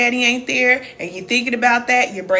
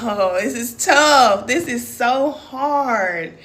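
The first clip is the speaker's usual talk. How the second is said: drawn-out, tired complaining; slow weary groan; 3 dB louder, much slower than usual. Retold or imitated. Remembering early motherhood, slow weary complaint. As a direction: drag it out like an exhausted new mom. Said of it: "and I'm like".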